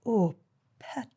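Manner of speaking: light Geordie accent; a hint of Geordie, Newcastle lilt; a singer's Geordie accent. Shown as a demonstration. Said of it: "I'd have to get my Geordie accent right".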